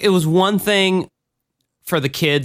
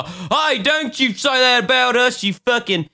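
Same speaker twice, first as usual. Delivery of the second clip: mock redneck; 8 semitones higher than usual. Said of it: "fuck you out there who go".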